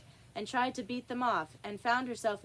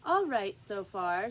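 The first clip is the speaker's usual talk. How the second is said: king's voice; 4 dB louder than usual. Acted. King comments on verses.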